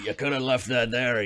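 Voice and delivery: put-on Scottish accent, dwarf voice. Voicing a dwarf character, speaking in a Scottish accent for a dwarf. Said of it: "he doesn't have the Scottish accent".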